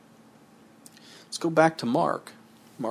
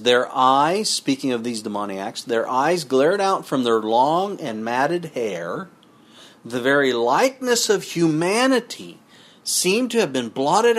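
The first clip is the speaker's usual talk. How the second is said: measured sermon reading with a drop at the end; scripture reading. Acted. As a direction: read it out like a preacher. Reads Desire of Ages quote.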